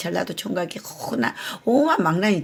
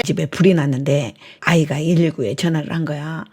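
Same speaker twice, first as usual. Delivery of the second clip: ordinary delivery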